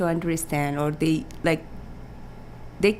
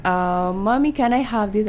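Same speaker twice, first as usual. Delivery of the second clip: put-on lightly raised little-girl voice asking sweetly; mother imitating her small daughter; 4 semitones higher than usual. Mother voicing her four-year-old asking at the store, a light childlike plea. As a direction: coax like a small child wanting a toy.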